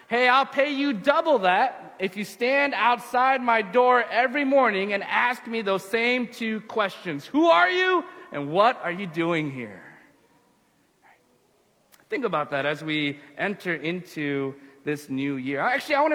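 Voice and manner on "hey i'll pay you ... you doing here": mildly raised, higher calling voice; calling back up. Acted. Rabbi making the guard an offer, calling back up. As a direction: call an offer up to someone above. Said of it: "the rabbi calls back up".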